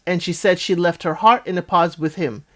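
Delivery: usual speaking voice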